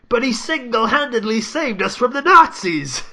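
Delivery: high, loud, blustering protest; hammed-up shrill protest; mock Piers Morgan outrage. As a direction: parody a pompous pundit's indignation. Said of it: "Piers Morgan is like".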